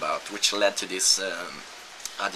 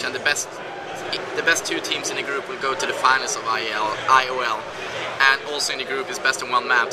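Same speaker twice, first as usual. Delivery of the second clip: excited; 5 semitones higher, 4 dB louder than usual. Real, not acted. Excited report after winning a match.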